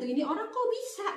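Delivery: astonished thought. Retold or imitated. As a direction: wonder aloud in disbelief. Retelling her astonished thought. (heran dalam hati)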